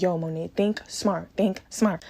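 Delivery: hushed self-talk; quiet warning to herself; inner voice. Retold or imitated. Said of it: "But I'm like".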